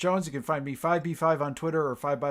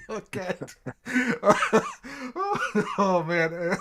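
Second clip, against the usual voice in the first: chipmunk voice; 4 semitones higher, slower than usual. Real, not acted. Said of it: "he brought his chipmunk voice".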